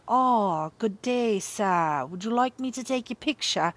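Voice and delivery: put-on a vague old-fashioned European accent; mock posh Dutch accent. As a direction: play a fancy painter offering, in a made-up accent. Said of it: "I don't know what accent that was".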